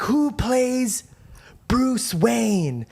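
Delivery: drawn-out trivia question to a crowd; quiz host. Acted. Retelling the girl with the microphone asking trivia, quiz host.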